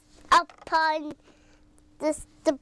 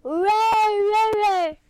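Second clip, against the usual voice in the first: put-on loud playful child roar; lion roar; 4 semitones higher, 6 dB louder, slower than usual. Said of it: "What's a lion say?".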